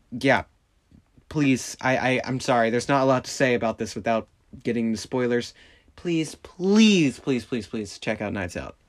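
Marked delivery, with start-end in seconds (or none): 6.0-8.8 pleading. Real, not acted. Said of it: "pleading to watch".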